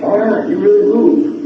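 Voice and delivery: lifted, approving exclamation in someone else's mouth; impressed admirer. Retold or imitated. Retelling what admirers said to him.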